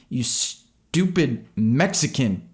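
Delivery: high, slow, spat-out screaming insult; furious insult. A narrator's reading. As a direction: hurl a slur at the driver.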